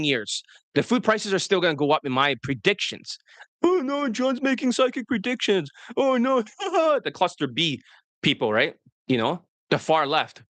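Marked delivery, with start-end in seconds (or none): 3.6-6.4 high, put-on mock alarm; mocking laughter. Far left laughs at coach's predictions, high-pitched mocking. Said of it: "They laugh at it". 6.5-7.0 high put-on jeering laugh; mocking laugh. Far left laughing at his predictions, high mock laugh. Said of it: "They laugh at it".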